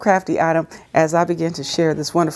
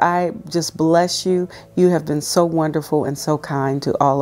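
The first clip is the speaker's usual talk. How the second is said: prayer. Real, not acted. Leads a prayer.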